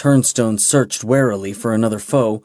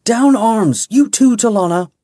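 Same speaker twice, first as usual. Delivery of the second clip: commanding shout; 11 semitones higher, 4 dB louder than usual. A narrator's reading. Ordering everyone to stop.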